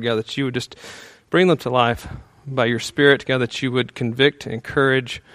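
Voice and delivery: soft, hushed prayer voice; pastoral prayer. Real, not acted. Pastor praying for his church, hushed and soft. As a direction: pray quietly over the congregation. Pastor prays before the sermon.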